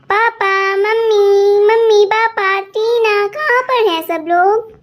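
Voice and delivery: drawn-out calls through the house; a girl calling for her missing family; calling out loudly. Acted. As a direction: call out for the family, stretching the names. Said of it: "तुम इतने जोर जोर से क्यों चिल्ला रही हो".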